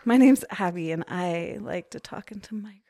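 put-on hushed radio-girl voice fading to a whisper. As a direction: play the intimate radio host close on the mic. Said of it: "You sound like a radio girl".

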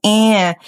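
drawn-out nasal "Eh"; crying vowel. Shown as a demonstration. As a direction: let "Eh" whine as before a nasal. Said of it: "'cause it makes it cry".

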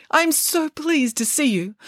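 high, slow, fond greeting; joyful relief. A narrator's reading. Mother pig greets rescued children, joyful relief. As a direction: draw it out with delight.

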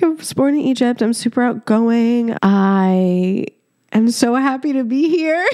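mock-cheery quote dissolving into laughter; laughing. Mimicking her cringy self-introduction, breaking into laughter. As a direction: laugh your way through the awkward intro. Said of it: "I can't stop laughing on this episode".

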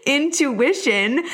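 slow, deliberate INTUITION; careful correction. Real, not acted. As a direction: sound out INTUITION carefully after fumbling it. Corrects the word after fumbling it.

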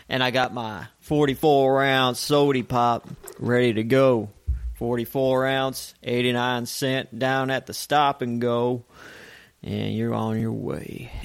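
light country twang; mildly hammed-up country accent; country-boy accent. Keeps playing the country boy.

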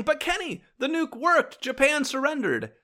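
high, pushy know-it-all objection; mocking objector. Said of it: "to those of you who are saying".

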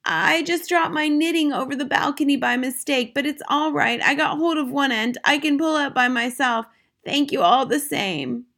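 put-on high, unruffled old lady voice; cool grandmother. A narrator's reading. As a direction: explain innocently, as if nothing is wrong. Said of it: "marveled at the coolness of her voice".

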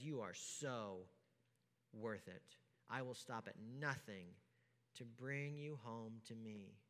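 hushed, tender reassurance; tender promise. Acted. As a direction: speak it like a loving promise, quietly. God's loving words quoted.

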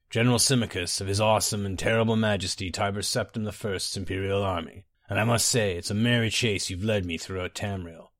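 lightly voiced suave villain, amused; Symmachus.

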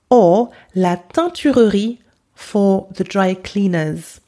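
"teinturerie" said the French way; French vowels on "teinturerie"; French pronunciation. Shown as a demonstration. Teacher gives learners the French word. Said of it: "repeat my pronunciation".

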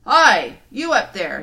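loud lion roar upward. Acted. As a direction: bellow up at the giant. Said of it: "he roared".

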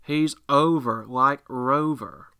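slow drawn-out commentator call; Jim Ross voice. Retold or imitated. Fan still doing Jim Ross, slow announcer call. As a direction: savour it like a wrestling announcer. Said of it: "Jim Ross voice".

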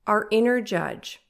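stuffy nasal tone from a cold. Real, not acted. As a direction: speak through a blocked nose. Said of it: "I sound so nasally".

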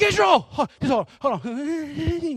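high, loud playful call. Acted. Dad going to hug his little son, calling out. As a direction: sing out the child's name. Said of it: "You're like".

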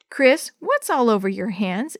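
usual speaking voice

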